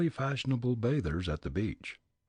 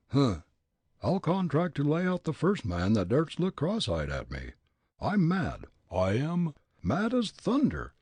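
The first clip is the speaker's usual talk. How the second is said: put-on furious old man; 7 semitones higher than usual. Old gent declaring himself mad to Fritz, blustering. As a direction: rage like a riled Leadville miner.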